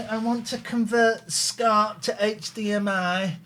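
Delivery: lightly voiced puzzled customer, drawn out; cable customer. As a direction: slowly act out a customer asking for help. Acts out a clueless cable customer.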